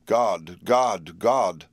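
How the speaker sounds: calling out God in rising alarm; called out loudly. A narrator's reading. Patient crying out to God in the night, mild loud call. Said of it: "Renfield had called out loudly several times".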